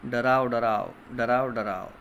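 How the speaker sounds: put-on sing-song chant, line by line, for children to repeat; poem recitation. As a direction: recite the rhyme with a lilting classroom rhythm. Teacher recites poem with class.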